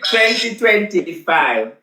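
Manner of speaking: "twenty twenty-five" drawn out slowly, each word weighted; slow, emphatic year reveal; slow, deliberate announcement. Shown as a demonstration. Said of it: "So you see, let me tell you".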